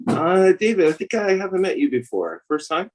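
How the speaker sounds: talking with a mouthful; words round a bite of food; mouth full. Real, not acted. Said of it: "You got a mouthful of food".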